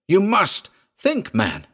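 urgent plea. A narrator's reading. Narrator urging amid attack.

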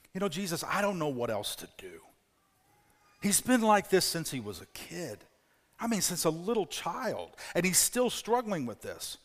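soft, weary and defeated; a worn-out father admitting defeat; quiet, drained plea; tired, defeated. Acted. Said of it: "the tiredness in the father's answer. Defeat".

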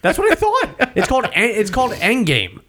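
laughing high through the words; talking while laughing at yourself. Real, not acted. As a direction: giggle out the title. Laughing at own mistake.

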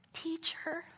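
put-on quiet, mild child's voice; a soft, gentle hint of a little kid. Second child softly telling the teacher she loves her. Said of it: "I hear another little voice".

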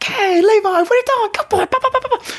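put-on very high falsetto baby talk; animated dog-calling voice. Shown as a demonstration. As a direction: grab the dog's attention with excited, high squeaky chatter. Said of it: "be animated, be something that your dog is engaged by".

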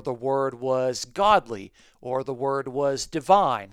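slow alternative readings. Shown as a demonstration. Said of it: "you could almost go about and translate".

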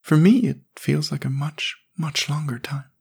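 put-on high, boyish voice of a sad little boy; young boy voice. A narrator's reading. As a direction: read it as a small forlorn boy. Jamie speaks.

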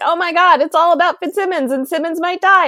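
high, loud fangirl squeal; excited gush. Retold or imitated. Fan retelling a shocking preview, squealing high and loud. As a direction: squeal it like the preview just broke your heart.

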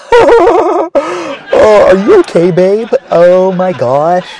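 high, bright-eyed couple voice, laughing; stereotypical white guy. Retold or imitated. Mocking couples who fall while skating, as a giggly white guy. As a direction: play a giggly dorky boyfriend. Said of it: "my stereotypical white guy impression".

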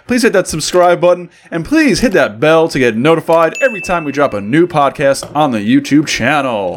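smooth FM host read; radio voice. Acted. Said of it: "I like this radio voice".

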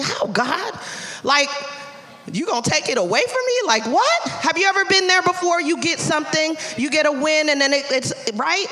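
pleading with God. Retold or imitated. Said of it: "I was like".

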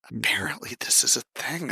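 whispered aside. Real, not acted. Unvoiced aside.

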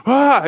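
mock gasp of fright; short, acted breathy "ah" of alarm; startled gasp. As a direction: gasp as if spooked. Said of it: "just kind of react".

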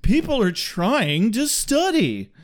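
slow, sing-song scolding; mock complaint with swooping pitch; prissy shushing. Telling noisy people off in a retold scene, prissy.

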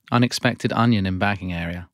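automated store voice; self checkout prompts. Acted. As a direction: announce it like a checkout machine. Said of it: "You are playing the character Prompt".

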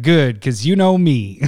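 slow punchline through a laugh. Retold or imitated. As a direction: land the joke slowly, laughing. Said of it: "He's like".

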